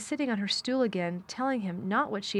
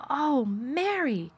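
half sob; 7 semitones higher, 3 dB louder, much slower than usual. Acted. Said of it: "he cried out with half sob".

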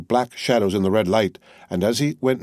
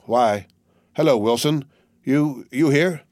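put-on weary young soldier calling out; 4 semitones higher, slower than usual. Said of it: "he called out".

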